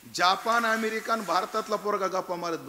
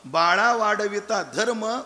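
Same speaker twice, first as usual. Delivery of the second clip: slow, louder recitation of the abhang; reciting scripture; 4 dB louder, slower than usual. Acted. Preacher reciting Tukaram's verse to the audience. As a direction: intone the saint's verse. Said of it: "तुकोबराय म्हटले".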